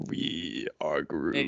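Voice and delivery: slow, low breathy whisper; Groot whisper. Pretend.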